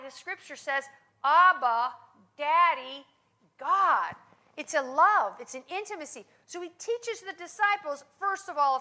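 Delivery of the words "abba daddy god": crying out. Acted. Crying out to the Father.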